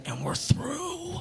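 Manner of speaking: high, drawn-out mock ultimatum; hammed-up diva warning, slow and high; mock breakup threat. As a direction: stretch it out way up high. Mock breakup threat to his date.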